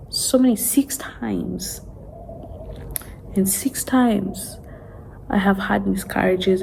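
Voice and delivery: barely whispered, fading out at the end; can hardly bring herself to say it; tearful whisper. Real, not acted. Admitting to her viewers how many times she was pregnant, in a tearful whisper.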